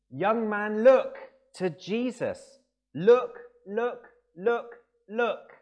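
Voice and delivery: high, very loud Methodist exhortation; hammered, repeated pulpit cries at full voice; top-of-voice preacher shout. Retold or imitated. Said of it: "he shouted at the top of his voice, as only a Methodist can".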